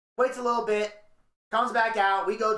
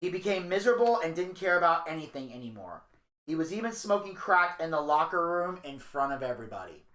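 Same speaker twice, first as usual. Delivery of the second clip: documentary narration; 2 semitones lower than usual. Acted.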